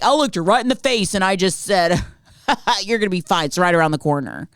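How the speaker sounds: badly faked European accent with a chuckle; imagine him bragging in a bad European accent; amused mock European accent; horrible accent. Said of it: "that's a horrible accent".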